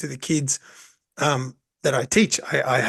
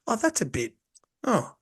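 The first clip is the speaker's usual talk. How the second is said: high, softer scandalised gasp; a parent half-shocked, trailing off; 7 semitones higher, 4 dB quieter than usual. Retold or imitated. Parents watching the class, mildly scandalised.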